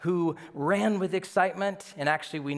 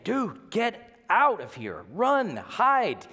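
pleading, louder and higher; urgent warning; 6 semitones higher, 3 dB louder, much slower than usual. Retold or imitated. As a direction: urge him to run, slow then sharp. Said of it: "his friends were saying".

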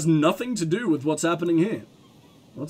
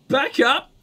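shout; 6 semitones higher, 3 dB louder than usual. Acted. Woman ordering them back.

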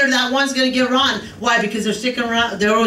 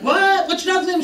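high incredulous asking; surprised question; 8 semitones higher than usual. Retold or imitated. Grandma asking grandson his dog's name, higher and amazed. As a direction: ask it in disbelief. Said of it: "And I'm like".

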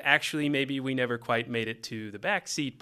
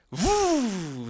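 high playful woo as the car sliding; car whoop; 7 semitones higher, 4 dB louder than usual. Retold or imitated. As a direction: voice the car's slide with a high woo. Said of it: "said the pink Buick".

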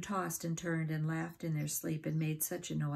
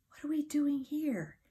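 cross, higher voice, just woken; grumpy little creature voice, snapping awake; 10 semitones higher than usual. A narrator's reading. Sleepy dormouse waking up, asking crossly. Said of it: "he asked in a cross voice".

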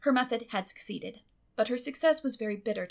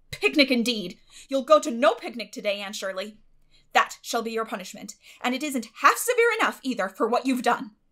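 louder, stern and firm; stern refusal; 3 semitones higher, 9 dB louder than usual. A narrator's reading. Guardian forbids the girl the picnic, stern. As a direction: lay down the law.

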